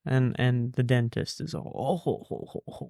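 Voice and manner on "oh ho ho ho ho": mock laugh. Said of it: "like, laughing".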